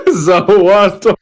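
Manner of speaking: slow, drawn-out anime stand call; mock JoJo cry. Friends joking about stands, slow hammed-up anime call. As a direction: ham it up like a stand reveal.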